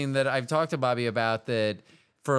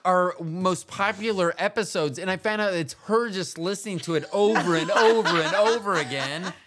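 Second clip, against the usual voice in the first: higher, laughing, animated; bubbling over with excitement; excited; 4 semitones higher, 3 dB louder than usual. Real, not acted. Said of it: "so excited".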